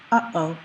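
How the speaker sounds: "Uh-oh" cut in two by a little stop; glottal stop. Shown as a demonstration. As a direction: stop the breath between "Uh" and "oh". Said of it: "you can hear a little stop there".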